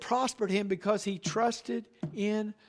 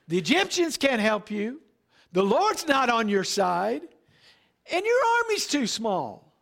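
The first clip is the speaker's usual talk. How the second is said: devil's taunt; 3 semitones higher, 4 dB louder than usual. Retold or imitated. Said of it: "He's saying".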